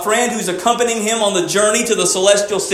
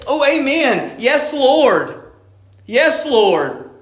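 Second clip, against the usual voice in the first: crowd's amens; 4 semitones higher, much slower than usual. Retold or imitated. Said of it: "there are those in the crowd who".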